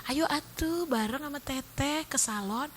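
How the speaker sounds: soft, slow, dainty invitation; lightly hushed, drawn-out delivery; Syahrini, soft-spoken. Retold or imitated. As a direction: imitate a gentle-spoken celebrity inviting a friend. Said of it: "itu Syahrini tuh ngomongnya halus loh".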